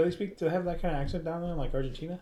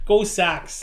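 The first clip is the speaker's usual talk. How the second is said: louder mock Boston cheer; Boston accent; 2 semitones higher, 6 dB louder than usual. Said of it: "try doing a Boston".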